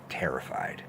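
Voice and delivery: whispered. Real, not acted. Recalls going to bed scared.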